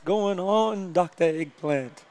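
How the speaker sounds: slow, lightly voiced vampire greeting; a hint of a drawn-out Count Dracula. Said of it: "My, my vampire impression".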